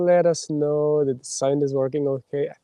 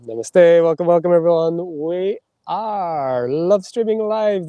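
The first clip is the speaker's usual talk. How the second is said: bright host greeting; 4 semitones higher, 7 dB louder, slower than usual. Real, not acted.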